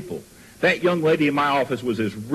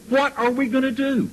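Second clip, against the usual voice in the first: higher-pitched imitation of a crying woman; imitating a distraught young woman, pitched up; retold tearful plea; 9 semitones higher than usual. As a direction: plead it tearfully, without real sobs. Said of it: "She looked up to me crying, sobbing".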